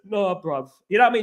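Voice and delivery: lightly mocked London fan-channel host; fan channel parody. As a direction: mimic a "bruv" football YouTuber a little. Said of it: "some of those other fan channels".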